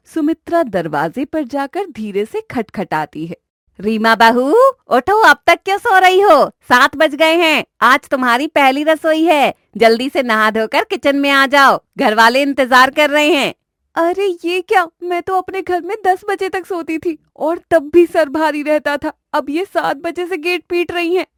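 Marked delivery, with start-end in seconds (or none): 3.8-13.5 calling through the door to wake the bride; a hint of an impatient mother-in-law. 13.9-21.2 put-on high, soft, grumbling young bride. Reema grumbling to herself.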